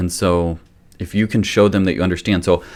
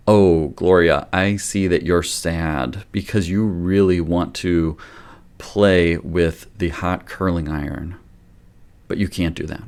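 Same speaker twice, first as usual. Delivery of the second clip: gentle acknowledging; slower than usual. Shown as a demonstration. Parent to toddler Gloria, gentle slow acknowledgement. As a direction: kindly explain why she can't, slowly. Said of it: "A is acknowledge the problem".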